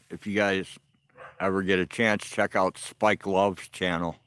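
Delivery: talking around a cigarette in mouth; words muffled by a cigarette. Real, not acted. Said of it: "since I had a cigarette in my mouth".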